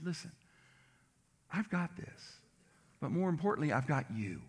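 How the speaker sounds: reassuring God. Retold or imitated. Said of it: "does it sound like the voice of God said".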